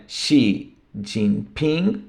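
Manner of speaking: Xi Jinping said slowly, Chinese style; Chinese name. Shown as a demonstration. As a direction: say Xi Jinping slowly, with Mandarin sounds. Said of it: "do presidente chinês". (Xi Jinping pronunciado devagar, à chinesa)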